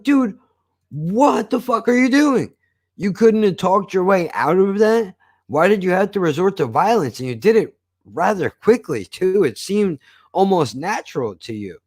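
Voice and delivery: mock horrified girlfriend pitched high. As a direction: imitate a shocked girlfriend scolding him. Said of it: "his girlfriend is horrified".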